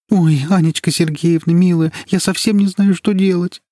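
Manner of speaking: high, pleading voice on the verge of tears; through tears. A narrator's reading. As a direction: squeeze the words out through tears. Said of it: "сквозь слёзы выдавила из себя Даша". (сквозь слёзы, высоким умоляющим голосом)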